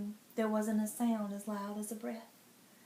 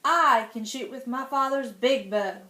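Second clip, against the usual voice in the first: proud; 7 dB louder than usual. Acted. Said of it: "He spoke up proudly".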